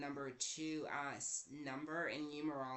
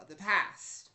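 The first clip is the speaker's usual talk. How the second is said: dramatic outburst; 3 semitones higher, 9 dB louder than usual. Acted. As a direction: belt "The past" like a melodrama cry. Dramatic echo of past.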